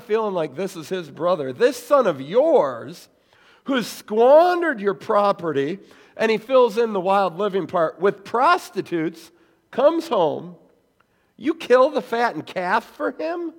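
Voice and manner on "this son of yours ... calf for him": rage. Retold or imitated. Older son to father, contempt for brother. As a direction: bite off each word in bitter anger. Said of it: "You can hear the rage".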